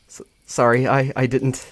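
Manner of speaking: flustered apology. Acted. Flustered character apologizes, retracting hand.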